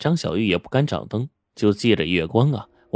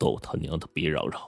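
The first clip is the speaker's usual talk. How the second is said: very quiet, low, deep, threatening voice; 5 semitones lower, 9 dB quieter than usual. Narrator voices someone behind a door holding a gun to a visitor's head, low deep voice. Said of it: "里面低沉的声音说".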